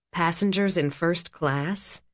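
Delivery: slow, puzzled question rising at the end; incredulous echo. Acted. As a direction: repeat it as if you misheard. Echoes in disbelief.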